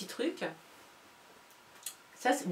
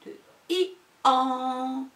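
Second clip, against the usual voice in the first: drawn out; 4 semitones higher, much slower than usual. Shown as a demonstration. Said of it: "on va dire que c'est le an".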